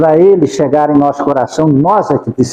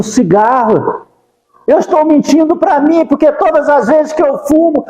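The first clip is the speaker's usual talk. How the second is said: higher, fervent pleading to Jesus; pleading prayer; 10 semitones higher than usual. Shown as a demonstration. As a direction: beg Jesus for help from the heart. (oração suplicante, mais aguda e fervorosa)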